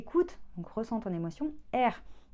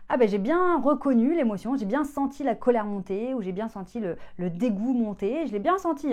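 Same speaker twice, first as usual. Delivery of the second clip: higher and louder, a touch of mock pride; animated self-report; 4 semitones higher, 7 dB louder than usual. A client noticing her rising anger, animated and higher. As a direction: exclaim it like a small discovery. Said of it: "le stade suivant, c'est".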